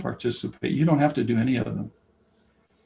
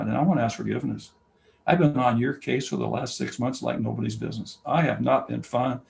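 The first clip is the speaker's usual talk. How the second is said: gentle apology. Retold or imitated. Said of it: "take him and say".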